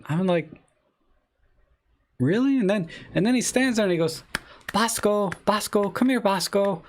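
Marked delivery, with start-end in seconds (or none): 2.2-2.6 incredulous really. Retold or imitated. To the stranger claiming his cat, high incredulous really. 4.7-6.8 much higher sing-song call to a cat; calling a pet. Retold or imitated. The stranger calling his cat across the driveway, high coaxing call.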